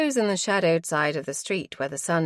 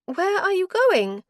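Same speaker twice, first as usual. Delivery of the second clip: higher-voiced wife, cold and weary; wife's voice; 14 semitones higher, 6 dB louder than usual. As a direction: she refuses him, tired and final. Wife's voice again.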